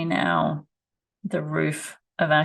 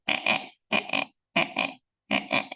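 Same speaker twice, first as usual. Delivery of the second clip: guinea fowl imitation; much faster than usual. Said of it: "this background noise in my videos of".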